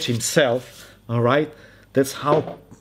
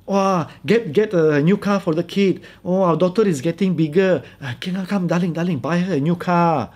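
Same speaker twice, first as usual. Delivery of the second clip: lightly voiced coaxing wife, higher pitch; doting wife; 3 semitones higher than usual. Wife asks husband for a new car, mock coaxing. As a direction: wheedle a little, as a mock sweet wife. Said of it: "she is that wife".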